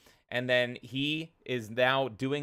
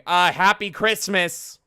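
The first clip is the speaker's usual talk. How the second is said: sheepish; 7 semitones higher, 9 dB louder, slower than usual. Retold or imitated. Sheepish retold gift line.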